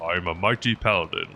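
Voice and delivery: lightly voiced heroic knight, barely changed; a hint of a noble paladin proclaiming. Shown as a demonstration. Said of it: "a paladin voice would be, like, the easiest".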